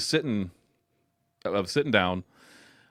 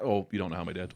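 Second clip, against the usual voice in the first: ordinary talk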